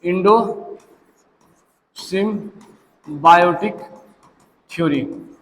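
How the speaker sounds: endosymbiotic stretched out syllable by syllable, very slow; very slow, drawn out. Shown as a demonstration. Teacher drawing out endosymbiotic for students, very slow. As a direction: spell out endosymbiotic slowly for the class. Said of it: "क्या होता है?".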